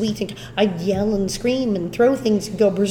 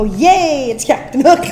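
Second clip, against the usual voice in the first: cheering crowd; 4 semitones higher, 5 dB louder, slower than usual. Retold or imitated. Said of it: "we all go".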